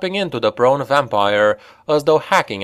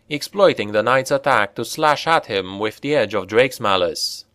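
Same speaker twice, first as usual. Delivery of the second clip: usual speaking voice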